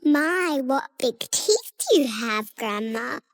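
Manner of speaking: put-on very high-pitched astonished child; gasping wonder in a tiny girl voice; surprised little girl. A narrator's reading. Girl notices Grandma's teeth, surprised high child voice. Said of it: "she said in surprise".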